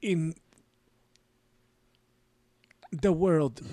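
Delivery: very slow German voice, long suspenseful gaps; Werner Herzog. Acted. Podcaster imitating a German director, slow husky voice. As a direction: hold each word in suspense. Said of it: "he holds words in suspense".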